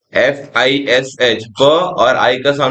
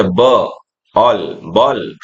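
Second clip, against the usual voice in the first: slow phonics blending; 3 semitones lower, much slower than usual. Shown as a demonstration. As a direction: sound out slowly, syllable by syllable. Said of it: "इस तरीके से पढ़ना है". (धीरे-धीरे ध्वनि जोड़कर)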